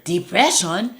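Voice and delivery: put-on high incredulous African accent; doubtful African accent. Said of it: "my best impression of an African person".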